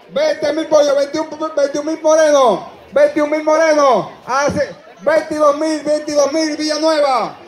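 rapid bid calling, rising; auctioneer. Acted. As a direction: call the bids like an auctioneer.

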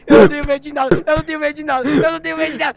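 mock bravado. Scared player fakes bravado.

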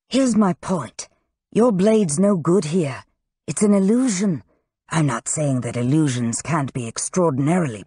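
lightly voiced Crow, insistent and explaining; earnest Crow.

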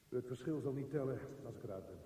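urgent. Acted. Monologue, rising urgency.

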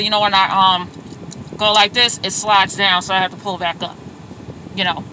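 muffled voice behind a face mask; talking through a mask. Real, not acted. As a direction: speak through cloth over your mouth. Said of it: "hard to understand people when they have this on".

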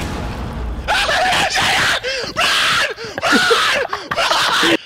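urgent shouting; yelling across the room. Real, not acted. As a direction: shout it to warn them. Teammate yelling in game.

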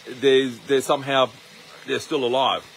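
talking through a mouthful of food; words round a bite of dinner; mouth full. Real, not acted. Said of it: "I just got some food in my mouth".

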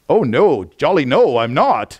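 hammed-up British "not me"; mock British accent. Preacher imitating a British friend denying his origins, mock British accent. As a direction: put on a jolly British accent for the denial. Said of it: "You're British, aren't you?".

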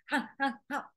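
stressed panting. Retold or imitated. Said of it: "This would be more like".

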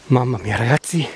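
panting after the climb; breathless, gasping between words; out of breath. Real, not acted. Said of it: "vi chiedo scusa perché ho il fiatone".

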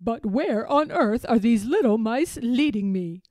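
puzzled elephant, projected loudly; a hint of a bewildered storybook hero; wondering Babar. A narrator's reading. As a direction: wonder aloud with emphasis. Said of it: "wonders Babar as he stops".

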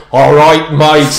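loud mock Mancunian greeting; Manchester accent. Host teasing the guest's impressions, loud mock Manchester accent. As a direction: imitate the guest's attempt at Manchester, loudly. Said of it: "met this guy from Manchester".

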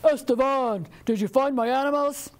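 lightly voiced commanding spirit; booming forest voice. Hidden Curupira calling the chicken from the forest, mildly booming. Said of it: "a voice boomed out".

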